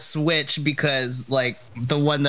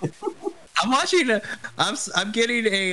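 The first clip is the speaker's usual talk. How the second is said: glitchy stream audio; 8 semitones higher than usual. Real, not acted. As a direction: sound like a freezing video call.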